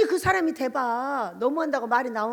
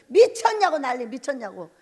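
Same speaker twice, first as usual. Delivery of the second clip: mocking pastors; 4 dB louder than usual. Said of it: "목사들이".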